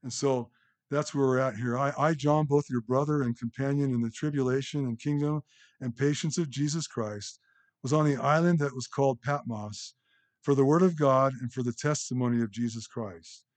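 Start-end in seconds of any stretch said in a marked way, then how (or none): 1.8-13.4 measured, raised reading voice for the text; scripture reading. Acted. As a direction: read the passage out with weight to the congregation. Reads Revelation aloud in sermon.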